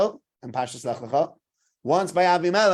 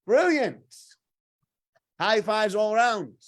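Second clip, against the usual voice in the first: much higher and louder whoop, hammed-up delight; imitating overjoyed onlookers, high and loud; mock cheering; 6 semitones higher, 6 dB louder, much slower than usual. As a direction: play the crowd who thinks it won the jackpot. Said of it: "which for many people go".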